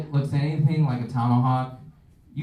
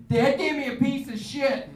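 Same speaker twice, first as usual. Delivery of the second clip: mock whiny kid; 11 semitones higher than usual. Acting out a bad birthday.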